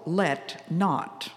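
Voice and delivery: "Let not." with not drawn out and leaned on as a command; stress on not. Shown as a demonstration. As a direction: press hard on "not" in "Let not.". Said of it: "the verbs are very pointed and very powerful".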